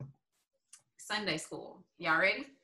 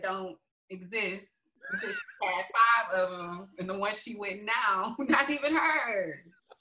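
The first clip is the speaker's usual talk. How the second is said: laughing; 6 dB louder than usual. Real, not acted. Cracking up at the story.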